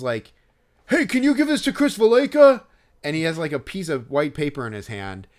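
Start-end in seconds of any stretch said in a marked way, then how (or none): 0.9-2.6 high, loud holler mimicking a pushy fan; imitated yell. Fan shouting past the barricade to staff, imitated yell. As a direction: yell it out like a man behind the barricade. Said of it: "and he just yells".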